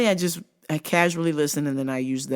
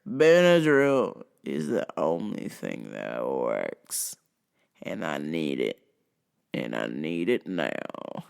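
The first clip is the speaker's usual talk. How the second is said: low, slow redneck demand; insistent redneck; 13 semitones lower, slower than usual. Retold or imitated. Redneck customer insisting to the clerk, low and slow. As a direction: drop low and insist like a hick. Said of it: "dare is a rednecky type customer".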